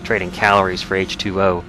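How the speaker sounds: put-on journal read in a light Southern accent; terse survivor's log with a slight Southern twang. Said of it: "unintentional Southern accent".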